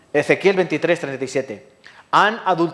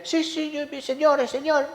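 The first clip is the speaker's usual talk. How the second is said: much higher, syrupy mock piety; mocking a fake pious voice, much higher; mock lip-service believer; 11 semitones higher, 4 dB quieter than usual. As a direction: parody a hollow churchgoer. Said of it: "con la boca dicen".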